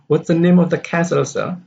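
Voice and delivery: quick and high, NAME and CASTLE stressed; stress on key nouns. Shown as a demonstration. Another boy's question, stressing NAME and CASTLE. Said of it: "So these are the stress".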